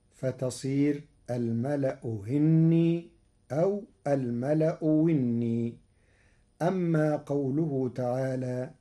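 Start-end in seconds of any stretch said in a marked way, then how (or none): 1.3-3.1 slow الملأ هني with softened hamza; Warsh tashil. Shown as a demonstration. الشيخ يسهل الهمزة الثانية. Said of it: "الهمزة الثانية بين بين". 4.1-5.7 slow الملأ وني with pure waw; Warsh ibdal. Shown as a demonstration. الشيخ يبدل الهمزة واوا. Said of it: "وإبدالها واوا خالصة".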